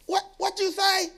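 high, laughing comeback; runner talking back. Retold or imitated. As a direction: play the runner snapping back at the stands.

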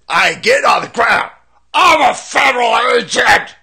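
high, loud mock whimper; mocking whiny voice. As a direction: whine it like a crybaby.

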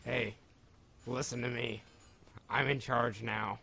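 distorted commanding robot voice. Real, not acted. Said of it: "You'll sound like this".

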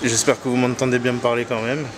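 muffled behind a mask; through a face mask. Real, not acted. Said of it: "Donc j'ai le masque".

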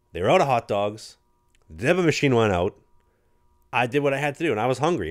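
hammed-up rookie pleading his case; mock protest. Rookie argues with the vet over the fine, mock protest.

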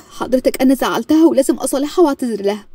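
upset pleading to her father; anxious plea. Acted. Daughter begging her father to let her go apologise, anxious. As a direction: plead urgently, guilt in the voice.

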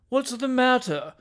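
high, slow, groggy call; startled cry. Acted. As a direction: cry out, roused from sleep. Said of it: "cried Mister Tupman".

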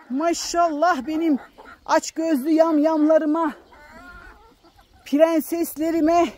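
fond high-pitched calls to her hens; cooing to chickens. Real, not acted. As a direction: coo at the hens like they're babies. Calling and praising chickens.

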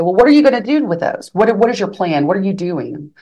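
quick, high start to a retold interrogation; retold aggressive questioning. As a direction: press with repeated questions, mildly mocking her. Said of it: "she was very aggressive".

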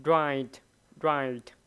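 Write ending on a t sound; teacher modelling the t at the end of Write; final t sound. Shown as a demonstration. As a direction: stop Write on its t. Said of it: "Âm t, t".

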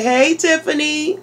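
high model greeting, lifted at the end; chirpy greeting prompt. Shown as a demonstration. Parent repeating the greeting for a child, chirpy.

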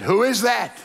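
firm call through a door; challenging doorkeeper. Acted. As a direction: demand lightly who is knocking. First asking at heaven's door.

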